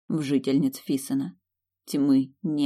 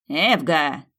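growl; 4 dB louder than usual. Acted. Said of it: "рыкнул толстяк".

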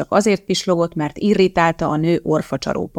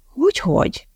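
suspicious; 8 semitones higher than usual. A narrator's reading. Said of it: "kérdezte a titkárnő gyanakodva".

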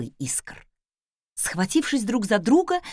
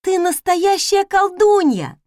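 delighted maid; 10 semitones higher, 6 dB louder, slower than usual. Acted. Maid amazed at the flames.

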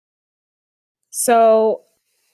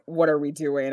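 low, softer, calm question; Katara, very calm; 5 semitones lower, 4 dB quieter than usual. Retold or imitated. Co-host recalling Katara's reaction after the kiss, very calm. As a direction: ask it calmly, pitched down. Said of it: "Katara very calmly was just like".

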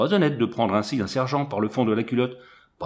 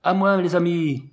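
higher, louder call for help; crying for help; 5 semitones higher, 4 dB louder than usual. A narrator's reading. Sergent under attack calls his friends, shouting for help. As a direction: shout to your comrades for rescue. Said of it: "en criant".

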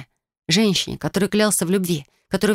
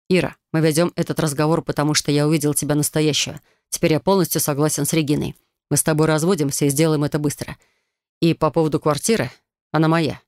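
ordinary delivery, nothing marked

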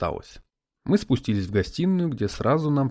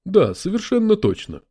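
spirit voice; 8 semitones higher, 5 dB louder than usual. Acted. Spirit answers.

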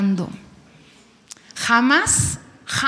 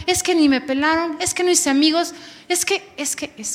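whiny excuses; 5 semitones higher than usual. Retold or imitated. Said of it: "Y dices".

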